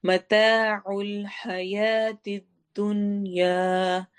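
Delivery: very slow chanted tajweed recitation; teacher reciting verse for students; Quran recitation. Shown as a demonstration. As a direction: intone each syllable slowly.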